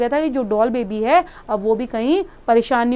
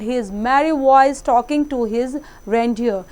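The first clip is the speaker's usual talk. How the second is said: put-on slow, deliberate read-aloud for children; slow story reading; much slower than usual. A narrator's reading. Teacher reading the story aloud slowly to the class. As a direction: read each word out slowly and clearly.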